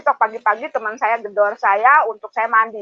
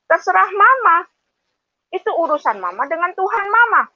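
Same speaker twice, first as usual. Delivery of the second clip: quoting husband, higher; voicing husband dismissively, raised pitch; a hint of the husband brushing her off; husband's words; 8 semitones higher than usual. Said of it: "suami saya ngomong begini".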